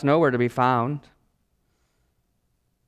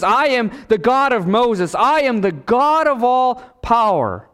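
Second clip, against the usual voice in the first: raised, high proclamation of divine power; Jesus; 9 semitones higher, 5 dB louder than usual. Acted. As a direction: proclaim it with mounting force, drawing out the end. Voices Jesus declaring his power.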